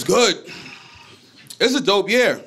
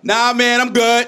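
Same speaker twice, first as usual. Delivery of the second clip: casual yell back; 9 semitones higher, 5 dB louder, slower than usual. Retold or imitated. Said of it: "the black dude just yelled back".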